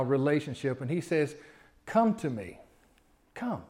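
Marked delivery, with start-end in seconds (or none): 1.8-3.6 much softer, near-hushed plea; tender invitation. Shown as a demonstration. Jesus inviting each listener, soft and tender. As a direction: draw them in gently.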